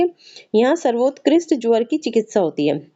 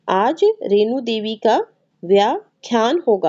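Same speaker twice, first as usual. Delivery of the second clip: slow reading. Shown as a demonstration.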